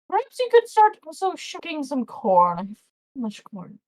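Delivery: high, rushed kindly farmer rambling on; babbling farmer. Acted. Farmer fusses over the wounded goblin, high and rambling. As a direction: gush at the goblin like a fussy old farmer. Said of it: "and goes".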